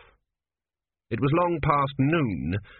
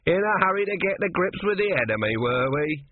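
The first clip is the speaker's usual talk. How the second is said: higher, cheery soldier's voice; cheerful ribbing, pitched up; 6 semitones higher than usual. A narrator's reading. Soldier teases the man about hurrying to the enemy, cheery. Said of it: "it said in a cheery voice".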